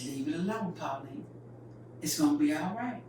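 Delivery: soft, patient dad; calm and easy. Retold or imitated. Daddy softly telling Pauline to leave it alone. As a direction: quietly tell her to let it be. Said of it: "All calm and easy".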